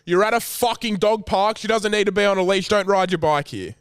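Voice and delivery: mildly heated mock comeback; retold angry yell-back. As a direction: fire back at the cyclist, half-strength. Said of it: "and you yell back".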